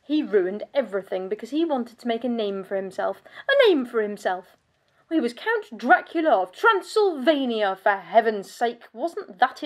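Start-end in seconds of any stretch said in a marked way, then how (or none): 3.5-4.6 incredulous, emphatic echo; scornful repeat. Acted. Countess scoffing at her husband's ambition, scornful and incredulous. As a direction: throw it back with indignant disbelief.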